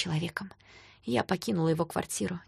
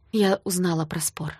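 even voice. Acted. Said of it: "сказала я ровным голосом".

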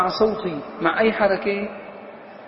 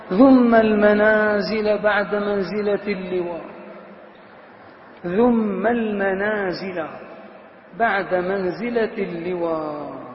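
slow, chanted reading of a line of verse; measured, lingering poetic recitation; poem recitation; slower than usual. Shown as a demonstration. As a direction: recite it like classical Arabic poetry.

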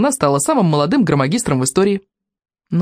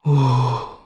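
small squeaky exclamation; squeak; 4 semitones lower than usual. Acted. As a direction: let out a tiny squeak. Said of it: "пискнул Один Клык".

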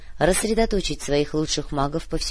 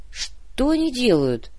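high, slow bewildered question; surprised; 7 semitones higher, slower than usual. A narrator's reading. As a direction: ask in puzzled surprise. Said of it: "удивлённо спросил Муба".

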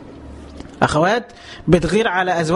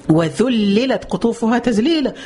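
Quran recitation; slower than usual. Acted.

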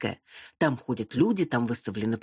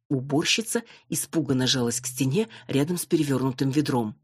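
plain reading voice

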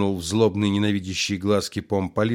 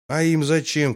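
higher, called out across the room; shouted from seat; 7 semitones higher than usual. A narrator's reading. Heckler to the colonel, higher shout. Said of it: "крикнул с места Переверзев".

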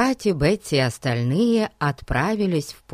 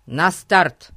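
loudspeaker announcement; 4 dB louder than usual. Acted. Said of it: "голос из репродуктора".

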